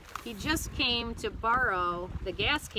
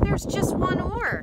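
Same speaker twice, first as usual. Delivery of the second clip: high, louder protest; dismayed exclamation; 8 semitones higher, 5 dB louder than usual. A narrator's reading. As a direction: point out the problem in alarm. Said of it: "gasps Frog".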